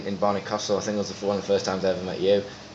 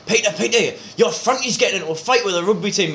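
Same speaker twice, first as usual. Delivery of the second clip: imitating a dad's mate calling out; 8 semitones higher than usual.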